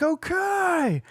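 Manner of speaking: very high, small, drawn-out okay; meek kid. Retold or imitated. Imitating the son timidly answering his screaming mom. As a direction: sound like a scared little boy. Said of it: "And he's like".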